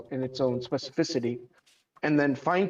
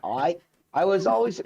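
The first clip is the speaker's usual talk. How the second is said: faltering stab at an Australian accent; half-hearted Australian accent; Australian accent attempt; 3 semitones higher than usual. Shown as a demonstration. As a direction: start an Aussie accent, then falter. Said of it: "I cannot do an Australian accent".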